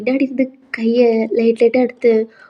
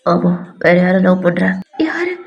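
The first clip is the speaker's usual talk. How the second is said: put-on low, dismissive young man; lightly voiced stern boy; 4 semitones lower than usual. V sending Alia back to studying, stern low voice. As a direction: brush them off in a lowered voice.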